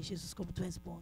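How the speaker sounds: low, very soft retold prayer; hushed grateful prayer. Woman recalling her thanks to Jesus once the bill was paid, hushed. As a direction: drop right down, as if praying privately.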